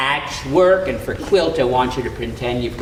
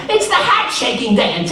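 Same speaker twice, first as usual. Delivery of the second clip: squeaky strained high voice; 5 dB louder than usual. A narrator's reading. Anansi in pain, dancing.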